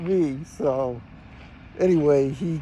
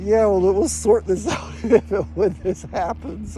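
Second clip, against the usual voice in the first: laughing reply; 4 semitones higher, slower than usual. Retold or imitated. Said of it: "I kind of laughed to him".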